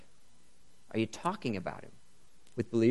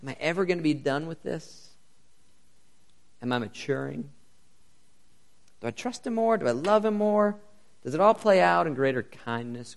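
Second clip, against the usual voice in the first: anxious self-questioning; 7 semitones higher, 7 dB louder than usual. Pretend. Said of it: "You might wonder".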